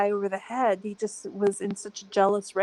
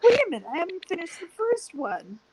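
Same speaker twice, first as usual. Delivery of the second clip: exasperated; 9 semitones higher than usual. Retold or imitated. Overwhelmed by new videos.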